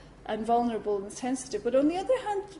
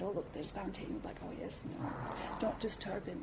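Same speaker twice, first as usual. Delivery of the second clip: mock hushed aside; 4 semitones lower, 12 dB quieter than usual. Retold hushed exchange.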